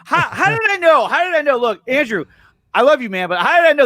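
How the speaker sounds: delighted that he called it; excited. Real, not acted. Streamer to chat, excitedly calling the question he predicted. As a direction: pitch jumps up high on each how did I know.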